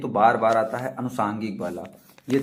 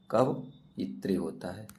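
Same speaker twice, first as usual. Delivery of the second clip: कवयित्री drawn out slowly, syllable by syllable; slow syllable demo; much slower than usual. Shown as a demonstration. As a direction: spell out कवयित्री slowly for students. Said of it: "आप देख सकते हैं कवयित्री होता है". (कवयित्री को धीरे-धीरे अक्षर अलग करके बोलना)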